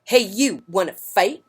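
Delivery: high, loud cocky taunt; grouchy ladybug challenge. Acted. Grouchy ladybug challenging a yellow jacket, high and loud. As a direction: call out a fight, brash.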